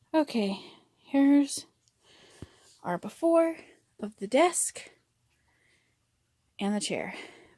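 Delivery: breathing hard, out of breath. Just came up the stairs to show the desk and chair, breathing hard. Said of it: "Pardon my breathing hard".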